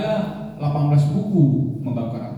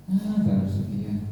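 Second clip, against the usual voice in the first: low, slow offhand youth; casual brag; 9 semitones lower, 4 dB quieter, slower than usual. Retold or imitated. Young man shrugs off his count, low and slow.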